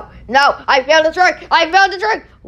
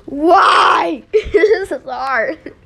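laughing wail; 3 semitones higher, much slower than usual. Real, not acted. Tower wobbling, laughing in despair.

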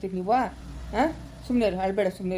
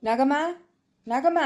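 calling a name across the house, raised voice; 4 semitones higher than usual. Acted. Father calls Nagamma from afar, raised voice. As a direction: call her in from another room.

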